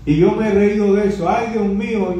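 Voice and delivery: high, pleading cry of guilt; high desperate lament before God; anguished Isaiah. Retold or imitated. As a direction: beg forgiveness in terror. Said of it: "signo de admiración, de exclamación".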